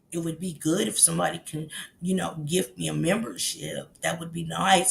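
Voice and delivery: soft, low mimicry of a man; quiet, low put-on voice; imitating how he talks. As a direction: imitate his polite little request, hushed and low. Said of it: "That's how he talks".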